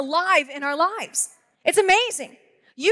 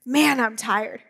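tired sigh; 3 semitones lower, slower than usual. Retold or imitated. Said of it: "lets out a deep breath".

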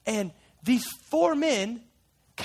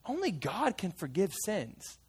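"only God can forgive sins" said softer and slow, almost hushed; quiet conviction; 8 dB quieter, slower than usual. Acted. The fisherman recalls what even he knew, hushed and slow. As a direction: hush it down and let "only" linger.

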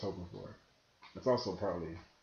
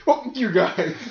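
mock defiant; 10 semitones higher, 9 dB louder, much slower than usual. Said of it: "You stand there like".

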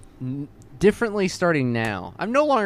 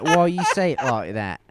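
lightly put-on British boss; mock British accent. Voicing the boss from the article, mock British accent. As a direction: quote it in a comic British accent. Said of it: "my boss was like".

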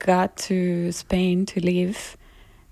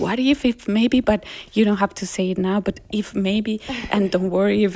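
1 mild indirect Colombian; 2 semitones higher than usual. Retold or imitated. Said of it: "respectful in the way they say things".

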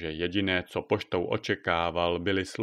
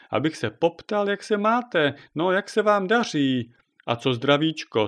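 put-on higher, insistent old neighbour; impatient neighbour; 5 semitones higher, 4 dB louder than usual. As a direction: pester him with questions, pitch climbing. Krákora presses with questions.

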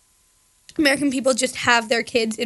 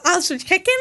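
higher-pitched Scouse attempt; Scouse accent; 5 semitones higher than usual. Shown as a demonstration. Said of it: "Can you say that again?".

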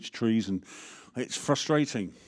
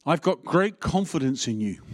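a touch louder, proclaiming "great" as Paul; Paul's voice; 3 semitones higher, 4 dB louder than usual. Shown as a demonstration. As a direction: give Paul's line with a firm fall on "great". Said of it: "you can hear Paul's voice or you can hear mine".

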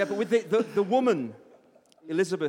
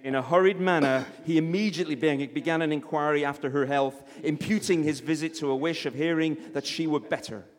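lightly put-on American accent for narration; vaguely American. Reading Austen to a live audience, vaguely American accent. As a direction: read it out in a rough American accent. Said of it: "vaguely American voice".

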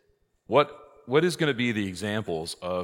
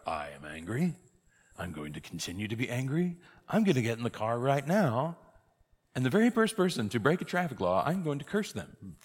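a hint of a stubborn declarer; defiant driver; 4 semitones higher than usual. Hypothetical parishioner vowing road rage to the priest, lightly acted defiance. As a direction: lay out each vow deliberately, mildly defiant.

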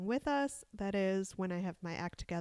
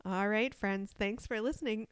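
preschool teacher voice. Real, not acted. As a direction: talk like you're greeting a preschool class. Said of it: "I sounded like a preschool teacher just then".

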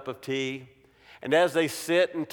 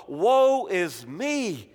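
a slow, stretched woe; drawn-out lament; 4 semitones higher, much slower than usual. Acted. Preacher voicing Isaiah's slow lament. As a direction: mourn the words slowly. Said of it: "he says".

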